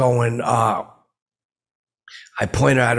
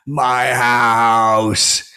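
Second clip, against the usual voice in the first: louder, indignant, drawn-out my house; chest-poking claim; 5 dB louder than usual. Retold or imitated. To the booing crowd, poking his chest, indignant claim. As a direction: jab the chest, claim the stage. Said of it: "poking my chest".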